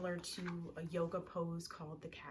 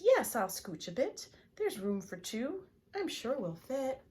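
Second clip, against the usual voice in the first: William; 5 semitones higher, 10 dB louder than usual. Acted. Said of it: "Will says".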